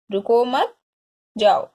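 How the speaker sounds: "रुको मत" joined, pause, then "जाओ" on its own; pause after मत. Shown as a demonstration. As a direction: keep रुको मत together and set जाओ apart. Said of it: "इसलिए कैसे बोले गए हैं?". ("रुको मत" के बाद ठहराव, फिर "जाओ")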